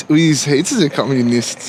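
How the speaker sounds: slow mock German accent. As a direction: lay on a heavy German accent. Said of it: "I'm trying to do German accent".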